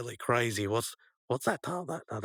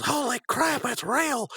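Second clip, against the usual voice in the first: high-pitched shocked cry; cartoonish high yelp of disbelief; alarmed exclamation; slower than usual. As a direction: blurt it out in mock terror. Mordecai sees the haunted taxi.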